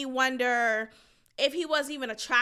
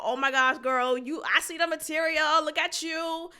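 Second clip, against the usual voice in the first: put-on girlfriend hype voice. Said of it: "saying to that girl".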